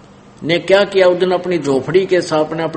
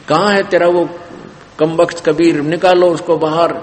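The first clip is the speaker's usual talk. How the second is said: louder, higher mock mob demand; angry demand; 3 semitones higher, 4 dB louder than usual. Mob with sticks at the door demanding Kabir, retold angry demand. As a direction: demand him like an angry crowd, mildly acted.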